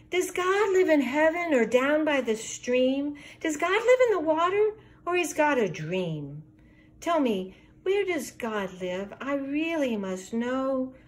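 lightly voiced pleading child. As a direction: beg sweetly like a small child. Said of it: "Hope ... her grandmother".

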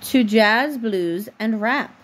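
slow, even storybook reading; reading to a child. A narrator's reading. Mom reading a bedtime book to her daughter, slow storybook voice. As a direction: read the picture book aloud, unhurried, for a little one.

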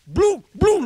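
loud, high crash sounds; plates smashing noise. Retold or imitated. Telling how his mother threw the plates, loud crash noises. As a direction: mimic plates hitting the floor.

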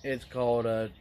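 talking around pipe stem; pipe in mouth. Real, not acted. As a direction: teeth clenched on pipe. Seen 1: pipe out of mouth 0.3–3.8, clenched in teeth from 4.5 on.

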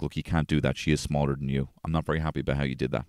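sit him down and explain gently; calm talk. Retold or imitated. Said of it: "sit him down and be like".

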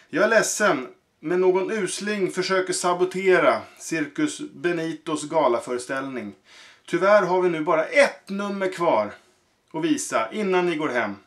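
sorry to tell the crowd the bad news; apologetic circus director. Director addresses the audience.

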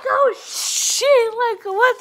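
retold embarrassed panic. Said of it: "This is so embarrassing".

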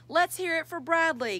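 high, loud rallying call. A narrator's reading. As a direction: call for a cheer from the crowd. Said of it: "called the lion".

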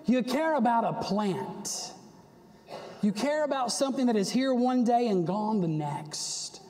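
earnest, pointed confronting; God. Acted. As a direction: press the point as if correcting someone. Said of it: "God says this".

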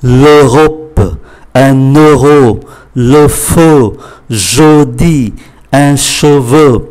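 careful word list with rounded eu in L'Europe and le feu; rounded-lip eu. Shown as a demonstration. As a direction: round the lips on the eu in L'Europe, euro, feu, jeudi, cheveu. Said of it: "thì chúng ta phải tròn miệng lại".

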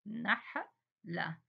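نحلة drawn out slowly; very slow stretched word. Shown as a demonstration. Teacher to young pupils, stretching نحلة slowly. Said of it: "teacher stretches the word".

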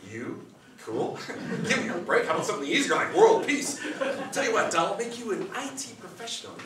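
genie. Acted. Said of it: "And the genie said".

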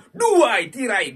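loud, slowly stretched announcement; drawn out. Acted. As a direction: drag it out like a game show host. Announcing symbols like a show.

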